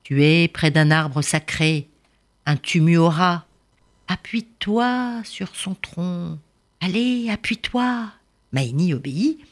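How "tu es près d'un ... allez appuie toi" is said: slow, reassuring elder; gentle old father. Acted. Prince's father guiding Maïni to lean on the tree, slow and reassuring. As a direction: coax her kindly.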